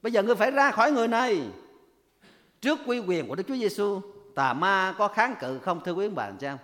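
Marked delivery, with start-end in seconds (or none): 0.0-1.4 louder, commanding rebuke, fast at the end; stern command. Retold or imitated. Preacher voicing Jesus driving out the spirit: loud stern command. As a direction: cast the spirit out with force. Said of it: "Chúa nói là".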